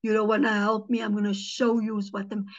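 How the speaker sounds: lightly voiced woman claiming to be the devil; devil-possessed woman. Possessed woman confronting church people, mildly menacing. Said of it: "She says, "I am the devil".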